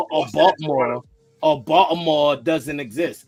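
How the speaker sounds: Baltimore said the local way, like "Bawlmer"; local Baltimore pronunciation. Retold or imitated. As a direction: swallow the middle of Baltimore as locals do. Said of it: "that's what they call it".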